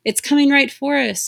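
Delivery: high, loud panicked scream. A narrator's reading. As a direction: cry it out in terror as the ship comes. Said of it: "Amara screamed".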